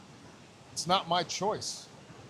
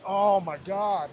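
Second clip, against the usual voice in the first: relief; 4 dB louder, much slower than usual. Retold or imitated. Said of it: "a huge sigh of relief".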